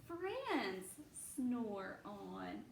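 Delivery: lively, sing-song storybook reading; reading to children. A narrator's reading. Teacher reading a bear story aloud to her class, animated. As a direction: read it like a picture book to little ones.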